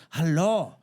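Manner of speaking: put-on loud caricatured Asian accent climbing very high; mock Asian accent. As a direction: fake detective in a put-on Asian accent, building to a high demand. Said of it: "you can't do an Asian accent".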